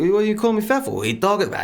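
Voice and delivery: high-pitched mock indignation; offended comeback. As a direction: play the insulted guy squawking back in protest. Acts out insulted man's reply.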